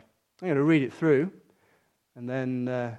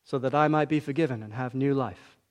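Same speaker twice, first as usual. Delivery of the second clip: slow, spaced prayer with long pauses. Shown as a demonstration. Preacher leading the congregation line by line, slow and hushed. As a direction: pray it line by line, leaving gaps. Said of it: "I'm gonna say it slowly".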